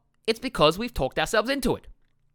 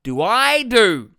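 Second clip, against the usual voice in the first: mock panicked asking; 7 semitones higher, 7 dB louder than usual. Coach mimicking anxious people's thoughts, high loud pleading. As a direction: ham up the desperate questions. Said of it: "everyone always thinks".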